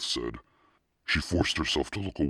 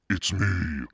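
higher-pitched exclamation; amazed cry; 6 semitones higher, 4 dB louder than usual. A narrator's reading. Daughter recognizing her own sculpted head, crying out. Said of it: "she cried".

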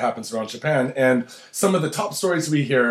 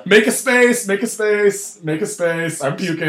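starts as a loud yell, trails off; yelling, then fading; 4 semitones higher, 3 dB louder, slower than usual. Acted. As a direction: shout to clear the aisle, then ease down. Clearing a crowded train aisle.

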